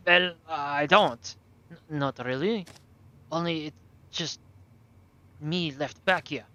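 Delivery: put-on halting German-accented boy; captive German boy, defensive. Captive boy denies caring, then invokes Father, defensive and halting.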